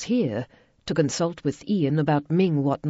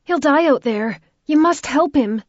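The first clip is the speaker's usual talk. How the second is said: put-on high, loud, pleading stranger's voice with a flat accent; desperate plea in an unplaceable accent; 10 semitones higher, 8 dB louder than usual. A narrator's reading. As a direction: beg for help in a foreign accent. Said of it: "she declared in a flat accent".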